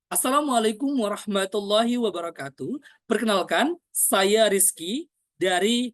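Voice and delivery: full-voiced formal introduction with stretched emphasis; diaphragm voice. Shown as a demonstration. Coach introduces himself as example, full diaphragm voice. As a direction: speak from the belly, drawing out key words. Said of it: "baru kita ngomong".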